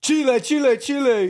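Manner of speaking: high excited Spanish; Spanish accent. Pretend. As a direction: chant it in Spanish, hyped. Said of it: "playful Spanish bits".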